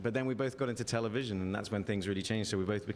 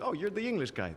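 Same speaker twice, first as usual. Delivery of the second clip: mock American fan; 10 semitones higher than usual. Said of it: "So everyone's like".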